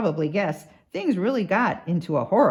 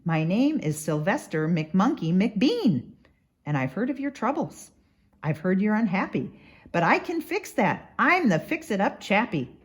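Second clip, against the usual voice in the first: keen salesman. Acted. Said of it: "he announced in a voice clear and keen".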